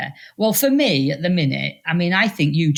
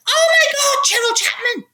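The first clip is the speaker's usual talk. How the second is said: astonished recognition. Retold or imitated. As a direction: gasp out the name in disbelief. Stranger recognises her abroad.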